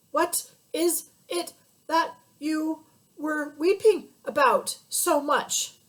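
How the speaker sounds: father asking the rhinoceros while tossed over the water, out of breath. Acted. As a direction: gasp the words out while being tossed about. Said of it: "trying to get his breath".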